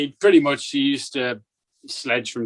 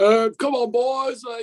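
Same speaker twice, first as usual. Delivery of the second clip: put-on posh voice, much higher and slower; 12 semitones higher than usual. Retelling Straussie coming over his shoulder during a face-off: Straussie's posh voice. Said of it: "in his posh voice".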